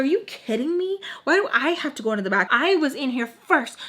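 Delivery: high, indignant retort in a retold fight; acted-out outraged comeback; indignant protest. Arguing over the back seat.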